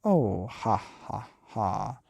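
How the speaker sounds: mocking ha-ha; hammed-up mocking laugh. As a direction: laugh at them. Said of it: "the wife started to laugh".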